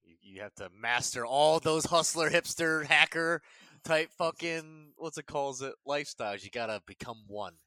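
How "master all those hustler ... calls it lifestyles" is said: frat bro. Acted. Friend hyping him up.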